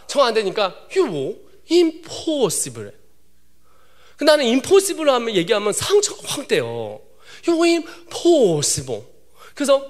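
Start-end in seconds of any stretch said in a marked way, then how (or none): 1.0-2.9 slow, drawn-out imitated English teacher; "impossible" stretched on the middle syllable; teacher giving up. Teacher gives up on him. 7.5-9.0 slow imitated verdict of an English teacher; drawn-out mock English pronouncement; teacher giving up.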